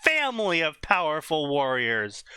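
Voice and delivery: dramatic trailer-style blurb read; reading a story blurb. Acted. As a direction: announce it like a book blurb. Reads out a fanfic blurb.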